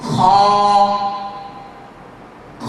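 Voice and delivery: খ with lips flat and open, not rounded; correct Kha. Shown as a demonstration. Teacher shows the right খ after the wrong one. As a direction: keep lips straight and open on খ. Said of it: "আবার লক্ষ্য করুন".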